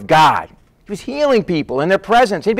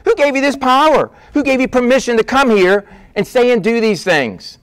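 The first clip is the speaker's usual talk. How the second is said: higher-pitched challenge; acting out affronted leaders; indignant demand; 5 semitones higher than usual. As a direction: demand an answer, pitch jumping up. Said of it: "they're gonna demand".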